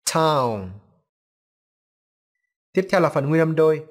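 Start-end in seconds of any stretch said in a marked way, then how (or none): 0.0-0.7 "Town" with a strongly aspirated t; carefully released t. Shown as a demonstration. Teacher shows learners the first consonant, crisply released. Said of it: "Chúng ta bật thật là kỹ nhé".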